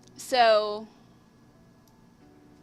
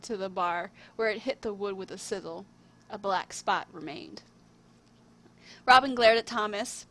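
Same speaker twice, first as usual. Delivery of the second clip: measured storybook reading with lifted openings; story narration. A narrator's reading. Writer reading their own tale to viewers, storybook narration. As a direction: read it out like a fairy tale.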